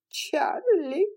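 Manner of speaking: sobbing the name, high; aunt sobbing on Melanie's shoulder; sweet sob. Acted. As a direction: relish the grief. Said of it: "сладко всхлипнула".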